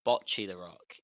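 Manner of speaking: "Bocce" as BOTCH-ee with short o; slow, low, careful "Bocce the Rock"; sounded out. Shown as a demonstration. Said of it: "when you actually sound it out".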